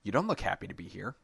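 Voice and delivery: quick, chirpy holiday cheer; perky shopper accosting a stranger; cheery mall girl; Christmas cheery voice. Acted. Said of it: "In a Christmas cheery voice".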